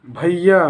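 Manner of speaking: भैया with its final आ drawn out; भैया, stretched on the closing syllable; prolonged pluta vowel. Shown as a demonstration. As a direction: hold the last vowel of भैया. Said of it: "आपके जो प्लुत स्वर हैं".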